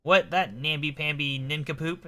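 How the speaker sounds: eccentric gent, comically disdainful; scornful old-fashioned gentleman. Acted. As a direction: dismiss a rival with pompous storybook scorn. Voices Rupert in game dialogue.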